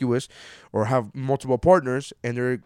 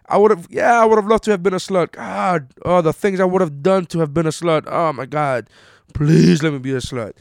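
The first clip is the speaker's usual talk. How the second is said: much louder and higher, gushing over the fantasy; excited mock yearning; 5 semitones higher, 7 dB louder than usual. Real, not acted. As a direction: beg the universe, playfully over the top. Mock-longing to have been a slut.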